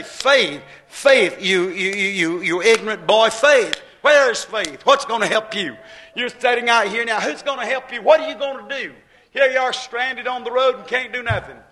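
loud jeering devil, lightly voiced; devil taunting. The devil taunts the stranded preacher, loud and jeering. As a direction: hammer at him with the devil's mocking questions. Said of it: "he'd beat on me and he'd say".

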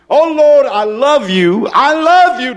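mock pious prayer. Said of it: "somebody says".

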